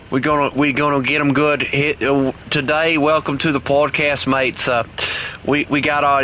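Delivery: a hammed-up Aussie hunter voice, lightly done; mock Australian accent. Teasing his British teammate Chris, in a mock Australian accent. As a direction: play a jokey Australian podcast host, Australian accent only lightly put on. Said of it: "I even stopped the accent".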